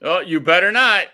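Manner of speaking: high, loud panicked pleading. Real, not acted. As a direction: beg her not to press it. Begging co-host not to play noise.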